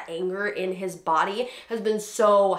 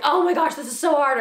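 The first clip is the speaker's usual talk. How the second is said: higher, a little louder groan of effort; mock exasperation; 7 semitones higher, 4 dB louder than usual. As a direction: play up the struggle. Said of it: "if I'm like".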